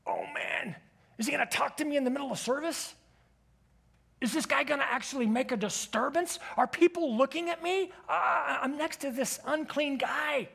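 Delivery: nervous churchgoer fretting about the stranger; mock-worried thoughts rising in pitch; anxious inner voice.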